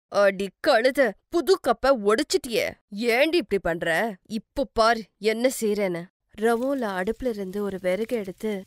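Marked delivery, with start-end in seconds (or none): 0.1-6.0 scolding, menacing stepmother; angry threat. Acted. Stepmother to girl who broke the new cup, angry. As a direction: rebuke her, then threaten punishment.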